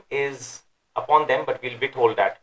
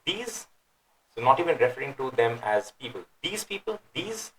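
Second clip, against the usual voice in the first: derogatory tone; 5 dB quieter than usual. Shown as a demonstration. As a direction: sneer "these people" as if not people. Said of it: "So it's in a derogatory tone".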